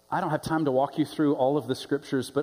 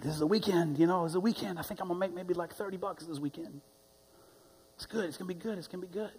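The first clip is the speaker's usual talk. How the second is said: soft, higher voice, quietly thankful; grateful; 4 semitones higher, 7 dB quieter than usual. Retold or imitated. Homeless man talks to the driver about his weekend, softly grateful. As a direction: say it softly and lightly, full of thanks. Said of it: "he's so grateful".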